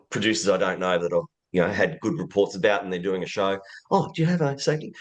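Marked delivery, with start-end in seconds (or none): 3.9-4.9 fast, bright phone pitch; quick cold call voice. Retold or imitated.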